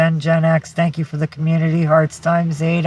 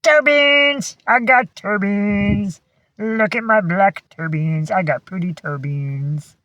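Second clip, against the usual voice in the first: voicing the dog; 4 semitones higher, slower than usual. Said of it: "He says".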